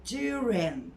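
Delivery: "During" as "jew-rin", g dropped; silent g in during. Shown as a demonstration. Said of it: "Sondaki G zaten yok".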